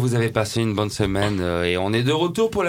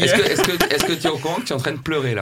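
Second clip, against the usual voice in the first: laughing; 4 semitones higher, faster than usual. Real, not acted. Laughing while asking.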